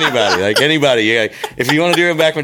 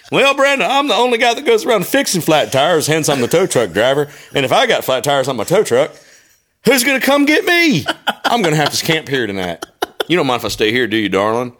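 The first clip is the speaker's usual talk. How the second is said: voicing the boyfriend; 3 semitones higher than usual. Voicing the tow truck guy.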